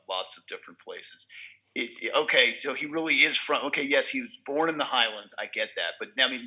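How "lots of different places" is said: a soft, low hint of a French accent. Co-host echoing Lambert's famous line, hint of French accent. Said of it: "that accent that he's got".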